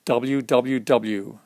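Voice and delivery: W W W drawn out slowly; slow letter call. Shown as a demonstration. Reader sounding out a letter for a child, slowly. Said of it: "letter sounded out".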